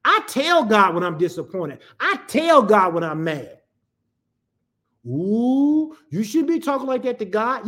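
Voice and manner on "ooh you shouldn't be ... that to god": mock scandalized objector; mock disapproval. Churchgoer chiding the preacher for frank prayer, mock disapproval. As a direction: put on a disapproving "Ooh".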